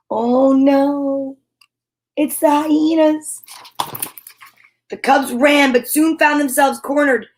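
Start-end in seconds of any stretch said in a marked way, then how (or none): 0.0-3.4 mock alarm. Reacting to hyena picture.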